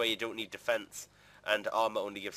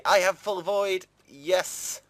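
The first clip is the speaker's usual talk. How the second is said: louder, higher joyful cheer; real elation; 6 semitones higher, 6 dB louder, much slower than usual. Real, not acted. Gamer cheering his finished set, excited. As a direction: celebrate the win out loud. Celebrates having full Void.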